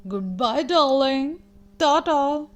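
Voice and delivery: a lightly voiced prim, fancy aunt; a hint of high-society airs in the farewell; fancy proper aunt. Aunt Silver bidding Spoon goodbye, lightly fancy and proper. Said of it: "She's very fancy and proper".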